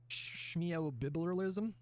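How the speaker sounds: slow mocking singsong on schmeobibleralism; sarcastic drawl. Real, not acted. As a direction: stretch schmeobibleralism out slowly, teasing. Mocking rhyme about neoliberalism.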